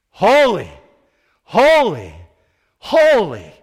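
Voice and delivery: high, booming declaration; three separate loud cries, each falling away; crying out. Acted. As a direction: proclaim it word by word at full voice. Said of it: "They cried out to each other constantly".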